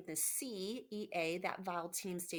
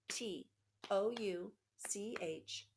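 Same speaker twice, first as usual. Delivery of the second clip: slow letter-by-letter spelling, each letter apart; tapping out a word; much slower than usual. Shown as a demonstration. Teacher taps out touch for young students, slow and spaced. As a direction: spell it out slowly for kids tapping along. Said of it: "Let's do it again".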